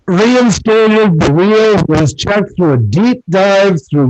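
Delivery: muffled, distorted mic sound. Real, not acted. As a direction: voice as if through a wall. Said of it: "When you talk, you sound muffled".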